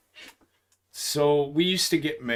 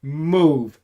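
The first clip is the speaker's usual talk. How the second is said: barked command; 6 semitones higher, 6 dB louder than usual. Retold or imitated. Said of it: "He said".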